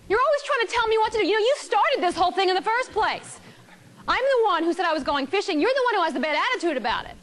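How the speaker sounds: mock angry husband. Husband snapping back at his wife, mock angry. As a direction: rush the complaint like a stung husband. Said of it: "He's feeling it even more".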